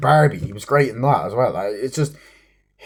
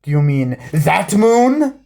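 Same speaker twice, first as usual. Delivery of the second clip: mocking disbelief; 5 semitones higher, 5 dB louder, slower than usual. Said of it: "he goes".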